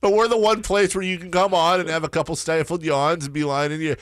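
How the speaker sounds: high, laughing through the words. Real, not acted. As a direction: tease him while still laughing. Laughing teasing a yawning guest.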